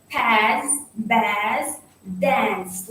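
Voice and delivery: "pass, bath, dance" each with a drawn-out A; British long A. Shown as a demonstration. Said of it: "with a long A".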